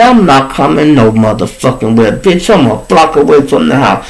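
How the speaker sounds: mildly heated retold refusal; indignant, fast-rolling comeback; snapping. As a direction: re-enact cussing someone out. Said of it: "I snapped, y'all".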